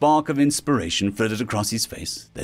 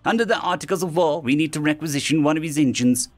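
higher-pitched alien character, decisive; Triddle giving orders; 3 semitones higher than usual. Acted. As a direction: take charge in a raised character voice. Triddle voiced as he gives orders.

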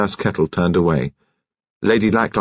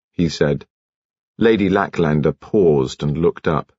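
ordinary delivery, nothing marked

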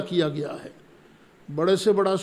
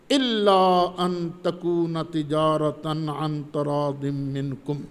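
Quranic recitation. Real, not acted. Quran verse recited slowly.

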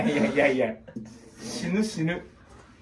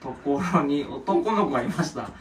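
slow, loud sounding-out of words; halting read-aloud; 4 dB louder, slower than usual. Real, not acted. Reading a child's writing for the others, slow and halting. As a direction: read it out bit by bit, unsure.

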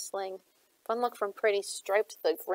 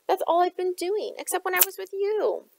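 higher, rising plea near tears; pleading; 10 semitones higher than usual. A narrator's reading. Gemma begging Shade not to leave, pleading. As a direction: hold back the tears as it climbs. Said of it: "Her voice caught".

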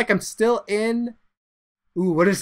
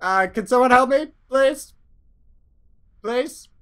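small, higher pleading voice; lightly voiced stranded pilot; 5 semitones higher than usual. Stranded pilot asks if someone can help, mild high plea.

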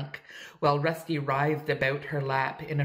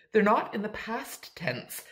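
retort; 6 semitones higher than usual. A narrator's reading. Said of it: "retorted Aunt Jamesina".

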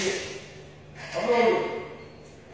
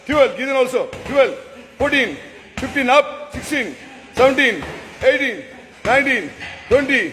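shouting orders over battle. Real, not acted. Coach counting kicks aloud.

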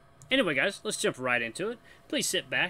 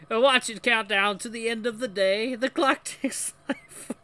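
raised fake French accent, cracking up; failed French Mickey; 6 semitones higher, 3 dB louder than usual. Mickey reciting lyrics, gamer breaking into laughter, botched French accent. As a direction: struggle through the accent toward laughter. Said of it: "I'm gonna keep doing it".

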